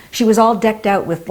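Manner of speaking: ordinary talk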